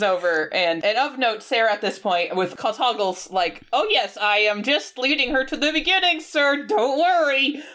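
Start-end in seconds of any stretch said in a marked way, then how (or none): 3.7-7.6 high, eager-to-please imitation; hammed-up grovelling underling; mock obsequious Hoggle. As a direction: reassure the boss, pitched up and overdone. Voicing Hoggle placating Jareth.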